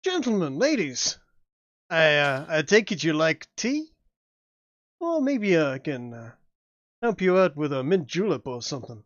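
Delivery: put-on hammy Southern colonel accent; bad Southern accent. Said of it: "a bad Southern accent".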